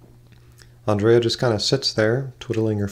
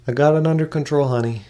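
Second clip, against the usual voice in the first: high, fast, breezy "under control, honey"; breezy reassurance; 5 semitones higher, 3 dB louder, faster than usual. Acted. Backgammon breezily reassures worried Andrea, airy and quick. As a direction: brush her worry off lightly. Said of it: "looks over at Andrea and says".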